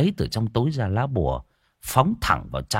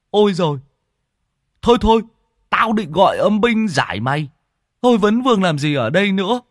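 higher, louder scolding monk; loud stern exorcist; 9 semitones higher, 5 dB louder than usual. Acted. Tứ ordering the ghost to move on, loud and stern. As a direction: shoo the ghost away firmly.

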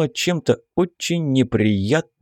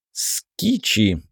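frowning; slower than usual. A narrator's reading. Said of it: "нахмурился Майти".

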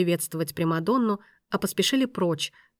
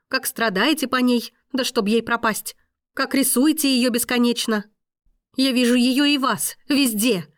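higher, louder, bitter tirade; jealous fury; 5 semitones higher, 5 dB louder than usual. Acted. Woman accusing the maestro over Veronica, jealous fury. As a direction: pour out every jealous image at him.

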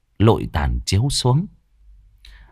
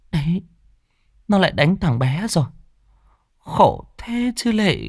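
pitying neighbour; 9 semitones higher than usual. Acted. Neighbour gossiping.

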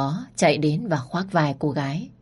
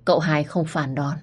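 ordinary delivery

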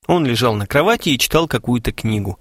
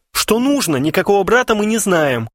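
high panicked shout; frightened yell, much higher; 9 semitones higher than usual. A narrator's reading. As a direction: cry it out in alarm. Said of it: "закричал Харченко".

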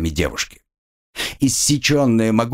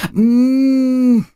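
high, loud scream through a gag; gagged muffled scream; 6 dB louder than usual. Acted. Gagged student screaming at the soldier. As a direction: scream against the rag in your mouth.

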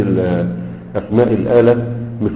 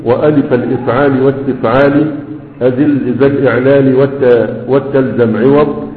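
verse recitation. Shown as a demonstration. Teacher reciting the verse to students. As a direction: chant the grammar verse measuredly. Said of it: "قال".

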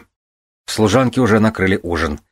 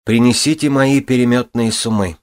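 loud, higher command; demanding; 6 semitones higher, 4 dB louder than usual. Acted. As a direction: call for it firmly. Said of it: "потребовала Вивиана".

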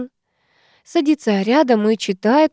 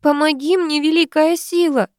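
much higher, desperate cry; 8 semitones higher than usual. Acted. Woman in labour crying to the great power, desperate. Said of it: "кричит роженица".

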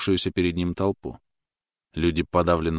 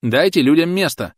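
high loud referee call; 10 semitones higher, 8 dB louder than usual. A narrator's reading. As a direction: clear the ring like a referee. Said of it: "тоном рефери потребовал Клод".

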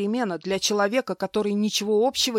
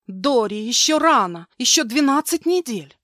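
higher, louder panicked cry; 5 semitones higher, 7 dB louder than usual. Acted. Woman in premature labour cries to her maid, high panicked voice. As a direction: cry it out in fear.

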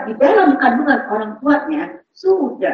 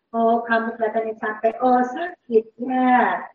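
gentle empathy; 3 semitones lower than usual. Shown as a demonstration. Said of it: "baca bahasa tubuh, dengar, tebak perasaan".

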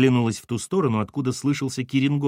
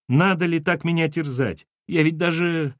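higher-pitched plaintive reproach; whimpering; 5 semitones higher than usual. Acted. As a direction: plead as the sobs begin. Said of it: "Тут она завсхлипывала быстрее".

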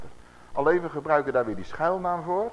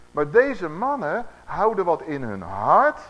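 preaching emphasis; 6 dB louder, slower than usual. Acted.

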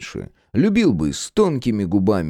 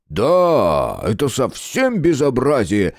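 mock indignation; 3 semitones higher, slower than usual. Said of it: "искренне возмутился Геныч".

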